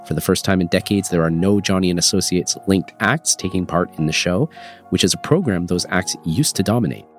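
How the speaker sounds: congested, stuffy voice from a cold; nasal voice. Real, not acted. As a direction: talk through a blocked nose. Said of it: "apologies for my nasally voice".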